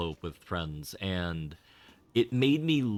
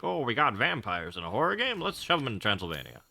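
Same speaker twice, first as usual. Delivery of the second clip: light mock Japanese accent; quick playful Japanese accent; 3 semitones higher, faster than usual. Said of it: "this is my Japanese accent".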